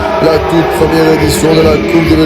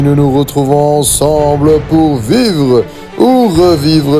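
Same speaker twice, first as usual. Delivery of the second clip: announcer intro; slower than usual. Acted. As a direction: build it up slowly like a host. Slow, low show intro.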